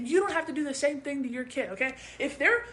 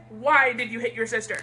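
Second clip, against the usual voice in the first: lower, even-handed parental question; calm question; 3 semitones lower than usual. Acted. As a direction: ask without accusing. The recommended calmer take.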